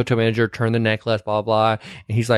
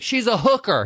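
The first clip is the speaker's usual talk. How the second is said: mock Stucky; 9 semitones higher than usual. Stucky quoted in retold scene.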